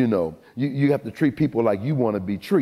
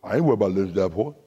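low, fast, mumbled imitation of Mister Williams; imitating her father; 4 semitones lower, much faster than usual. Preacher mimics Mister Williams to the crowd, fast and low. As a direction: rattle it off low like the coach dad. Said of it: "That's how he talks".

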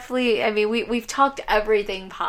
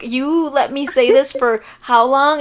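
slow, louder mock outrage; retold indignation; 4 semitones higher, 6 dB louder than usual. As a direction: drag out the accusation. Indignant at the older guys.

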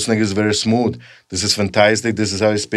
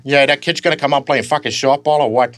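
Peter Griffin again; 4 semitones higher than usual. Retold or imitated. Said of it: "he's always like".

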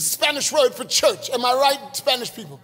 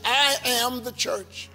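slow, deliberate and sincere; with true conviction; 3 dB quieter, slower than usual. Shown as a demonstration. Pastor modelling the line for the church, slow conviction. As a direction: say it as if you truly mean it. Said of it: "with true conviction".

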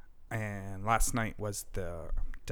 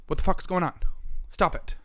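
higher, exasperated demand; angry outburst; 6 semitones higher, 4 dB louder than usual. Real, not acted. Host venting to co-host about gun laws, higher angry outcry. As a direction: plead in real anger. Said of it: "I'm so angry about it".

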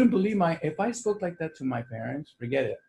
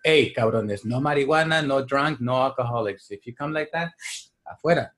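lightly voiced strict father. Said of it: "because he was like".

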